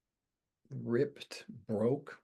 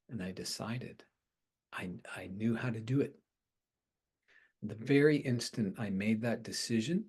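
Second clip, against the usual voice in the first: usual speaking voice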